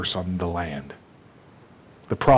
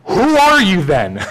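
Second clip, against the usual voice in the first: higher, louder and slow, at wits' end; exasperated demand; 10 semitones higher, 7 dB louder, slower than usual. Retold or imitated. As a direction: finally snap the question out in frustration. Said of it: "There's some frustration that's going on".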